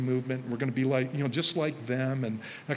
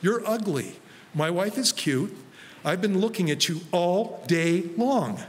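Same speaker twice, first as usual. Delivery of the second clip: teasing retort; 5 semitones higher, slower than usual. Retold or imitated. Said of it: "I seriously said this to him".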